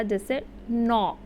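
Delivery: नौ said slowly with a long o; vowel demo. Shown as a demonstration. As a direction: stretch the o in नौ. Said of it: "next sound आया है ऊ का".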